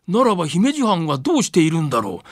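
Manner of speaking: ordinary delivery, nothing marked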